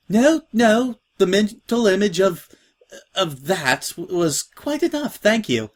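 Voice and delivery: a giggly plea to stop; laughing protest. Acted. New girl to joking Scratch, giggling protest.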